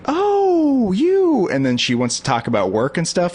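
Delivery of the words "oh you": high, bright mock greeting; imitating older woman. Older barista greeting him, hammed-up high voice. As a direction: mimic her gushing hello way up high. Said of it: "she's always like".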